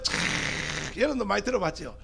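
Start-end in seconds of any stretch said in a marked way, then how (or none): 0.0-1.0 long, voiceless rushing whoosh; imitated whooshing noise. Friends retelling the highway drive from Seoul, imitated whoosh. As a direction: draw out a harsh whoosh with the breath.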